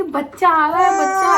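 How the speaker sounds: retold labour shout; urgent call. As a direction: call out in a rush. Calling out that baby comes.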